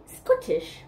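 drawn-out bad Scottish accent; botched Scottish lilt; failed Scottish accent. Shown as a demonstration. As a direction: attempt a Scottish accent and fail, slowly. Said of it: "trying to do a Scottish accent".

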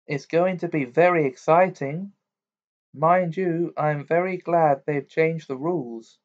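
a hint of a teasing mum; Mrs Weasley.

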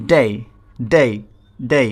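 "ডে" repeated as separate words, each starting on a hard ড; pronunciation demo. Shown as a demonstration. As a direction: model "ডে" for learners, pausing between repeats. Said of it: "এটা হবে ডে". ("ডে" আলাদা করে স্পষ্ট উচ্চারণ)

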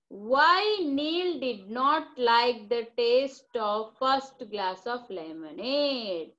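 very slow, word-by-word question read; teacher reading a question out very slowly; slow dictation. Shown as a demonstration.

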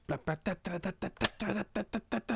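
quick staccato da-da-da; nonsense vocalizing. Real, not acted. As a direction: rattle off playful syllables, rising in pitch. Vocalizes a rapid nonsense run.

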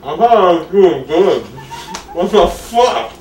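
high, loud laughing disbelief. Real, not acted. Laughing, losing the race.

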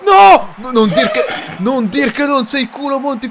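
laughing outraged no; loud laughing disbelief; excited protest. Real, not acted. Friend scores lucky goal.

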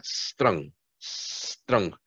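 Strong said softly, slow and careful, ending in a soft g; pronunciation demo. Shown as a demonstration. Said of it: "escuchen cómo se pronuncia".

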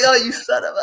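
high, loud, half-laughing yell; fake-furious, cracking up; laughing mock outrage. Dad caught by his son's prank, laughing yell. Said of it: "And I'll be like".

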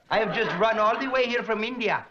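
lightly voiced comic traveler; turbaned traveler from India. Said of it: "A smiling barefoot gentleman wearing a turban".

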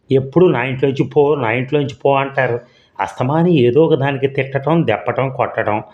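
agitated outburst. Acted. Wife pours out years of grievances to her husband, agitated and hurt. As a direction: pour out the grievances in a rush. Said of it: "Janaki మనసు ఉద్రేకపడుతోంది".

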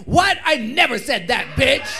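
indignant denial. Retold or imitated. Acting out Candy's outraged denial.

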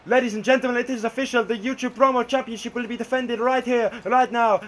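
big arena announcement; ring announcer. Acted. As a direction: announce the title match. Official match announcement.

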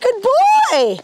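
high, drawn-out praise; praising the horse. Real, not acted. Trainer to horse after a leg yield, praising.

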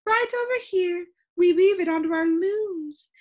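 high, loud, enthusiastic character voice; excited shopkeeper calling out proudly; crying out. A narrator's reading. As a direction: show off the wares with high-pitched gusto. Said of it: "she cried".

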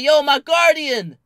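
slow, loud, high yell for guardian; drawn-out call. Retold or imitated. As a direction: stretch it out like calling across a lot. Yelling for guardian.

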